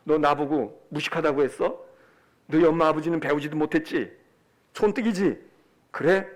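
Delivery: low, grudging threat; acted bitter grudge, voice dropped low; vengeful resolve. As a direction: vow payback through gritted teeth. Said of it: "딱 이를 악물고".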